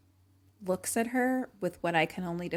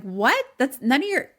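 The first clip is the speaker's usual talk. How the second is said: high, raised mock outrage; retold indignant reply; 7 semitones higher, 6 dB louder than usual. Girl answering a too-personal truth question, mock indignant. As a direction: act out her offended disbelief.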